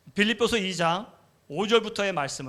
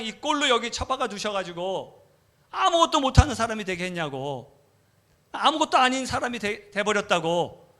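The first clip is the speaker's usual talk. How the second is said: resentful complaint; 4 semitones higher than usual. Retold or imitated. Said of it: "하나님한테 원망이 가는 거죠".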